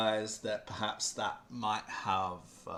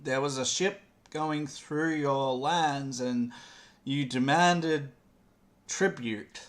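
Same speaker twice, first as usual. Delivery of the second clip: nervous pleading; 3 semitones higher, 4 dB louder than usual. Acted. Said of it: "the folk up here say".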